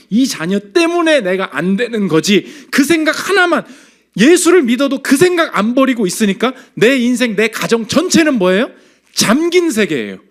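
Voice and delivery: loud, high, emphatic sermon delivery; impassioned, insistent preacher; forceful preaching. Real, not acted. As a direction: drive the point home to the congregation.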